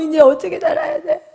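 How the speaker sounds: put-on crying young man's high, loud, tearful wail.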